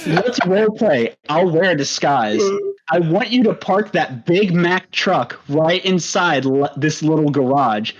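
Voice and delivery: lightly put-on, measured white-guy recital; whitest voice. Shown as a demonstration. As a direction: read rap lyrics out carefully, evenly spaced. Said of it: "read it in the whitest voice that you got".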